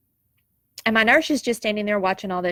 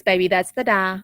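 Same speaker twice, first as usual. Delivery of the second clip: very gently. Retold or imitated. Husband gently reassuring his wife in hospital, mild tender tone. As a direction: reassure her kindly, just a touch of tenderness. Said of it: "very gently".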